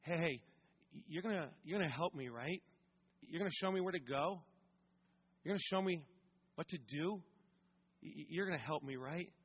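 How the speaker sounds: put-on soft, small pleading voice like a child; hushed, timid asking; a touch of a scared child, quietly; quiet and childlike. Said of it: "real quiet, real childlike".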